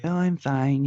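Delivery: a hint of a frail old woman answering; old raspy voice. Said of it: "and that old raspy voice".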